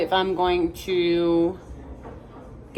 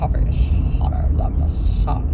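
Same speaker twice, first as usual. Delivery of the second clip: slow, loud, rasping attempt at a Scottish accent; muddled Scottish accent; 4 semitones lower, 5 dB louder, slower than usual. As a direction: drag it out in a mangled Scottish croak. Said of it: "who's that singer".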